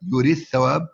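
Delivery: يرث ثواب بثاء مشددة واحدة; صل يرث بثواب بثاء مشددة; إدغام الثاء في الثاء. Shown as a demonstration. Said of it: "يدغم الدال في الثاء". (نطق يرث ثواب بالإدغام)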